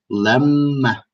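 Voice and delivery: LAMMA with the m held long; double m. Shown as a demonstration. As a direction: pronounce the m in LAMMA twice. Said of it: "you have to pronounce this letter twice".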